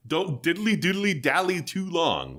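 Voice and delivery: high Flanders impression, bouncing on diddly diddly. Gamer redoes the dragon's line, in a high Flanders voice. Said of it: "talking like fucking Flanders".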